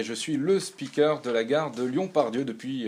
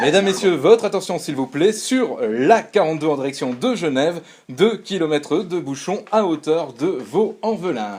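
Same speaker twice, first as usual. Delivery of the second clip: over a PA system. Acted. Station speaker's announcement after chime.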